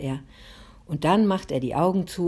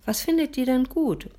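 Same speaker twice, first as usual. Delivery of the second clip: put-on high-pitched, insistent child's question; pestering; 9 semitones higher than usual. A narrator's reading. Boy presses his mother for gift ideas, pestering. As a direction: nag for an answer, pitched well up. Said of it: "sagt er drängelig".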